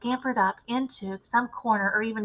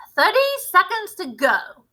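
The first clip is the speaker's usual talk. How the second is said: slow, higher gleeful countdown; crying out; 9 semitones higher, 6 dB louder than usual. A narrator's reading. Witch cries the countdown to the boy, gleeful. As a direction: gloat over the clock. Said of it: "cried the Grand High Witch".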